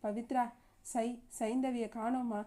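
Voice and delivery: halting, stumbling over the name, slowed; stammering. Acted. Grandmother telling her daughter the baby is missing, stammering. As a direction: falter out the words through shock. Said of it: "திக்கி திக்கி சொன்னாள்".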